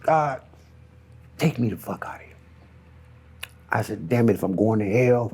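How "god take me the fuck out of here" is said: hushed, desperate whisper; quietly pleading to God; whispered plea. Retold or imitated. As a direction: beg it under your breath. Begging God to take him.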